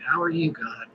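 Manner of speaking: trailing down to near silence at God; inner voice. Shown as a demonstration. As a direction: say it as if only in your head. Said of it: "I'm kinda doing it in my head right now".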